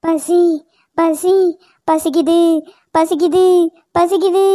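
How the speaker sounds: low, eerie drawn-out hunger moan; cursed doll groaning with hunger; hungry moan. Acted.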